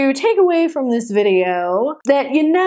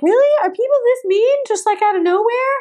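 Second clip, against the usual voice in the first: shocked disbelief; 9 semitones higher than usual. Retold or imitated. Retelling her shock at the rude woman, incredulous. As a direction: sound stunned that anyone is this mean. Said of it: "I'm like".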